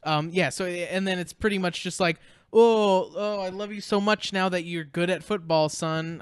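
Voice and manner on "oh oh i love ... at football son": mock doting dad. Friend mocks a dad who suddenly loves his football son. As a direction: gush like a fake proud dad.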